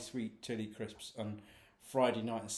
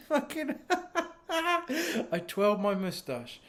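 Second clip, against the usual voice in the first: slow, drawn out; 13 semitones higher, slower than usual. Real, not acted. Slow mock-proud repeat.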